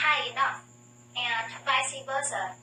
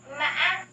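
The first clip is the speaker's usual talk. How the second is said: MÃ stopped midway, then rising high; pause inside the tone; 3 semitones higher, 3 dB louder than usual. Shown as a demonstration. Teacher shows the pause in the third tone, MÃ broken and rising. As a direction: break MÃ in the throat before it climbs. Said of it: "there is a pause when you pronounce".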